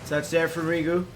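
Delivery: fast, rising sports commentary; live play-by-play. Acted. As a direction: call the game as it happens.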